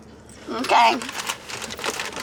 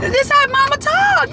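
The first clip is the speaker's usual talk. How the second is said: high, stretched-out sassy drawl; exaggerated drawl; 11 semitones higher, slower than usual. Real, not acted. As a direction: draw each word out, pitched right up. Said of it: "Why are you talking like that?".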